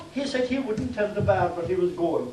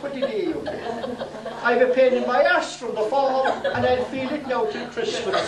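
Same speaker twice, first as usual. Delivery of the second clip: raised pitch, told through a laugh; the teller half laughing at his own punchline; laughing reply; 3 semitones higher than usual. Retold or imitated. Priest answering the fallen blacksmith, through laughter. Priest replies after the fall.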